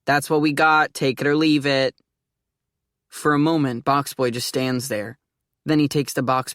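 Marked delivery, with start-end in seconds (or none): 0.1-2.0 curt clerk. Acted.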